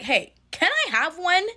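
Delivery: high, sugary little request; high, overly sweet mock request; sweet ask. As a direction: ask for one all sweetly. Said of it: "So I'm like".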